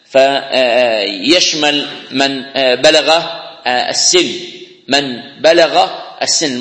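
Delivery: بلغ stretched slowly; stressed بلغ, drawn out. Shown as a demonstration. Teacher explaining a term, slow and stressed. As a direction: lean hard on بلغ, very slow. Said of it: "مراد البالغ".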